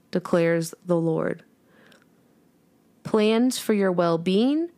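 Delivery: slow, measured Bible reading; scripture reading. Acted. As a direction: read the verse slowly and reverently. Reads a Bible verse aloud.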